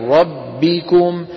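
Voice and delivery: من ربكم said as مربكم with no نون; teacher's idgham demo; merged idgham. Shown as a demonstration. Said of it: "لما منقول من".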